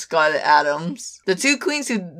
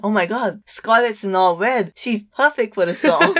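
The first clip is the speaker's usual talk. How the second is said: excited; 3 semitones higher than usual. Retold or imitated. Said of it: "You said it as soon as".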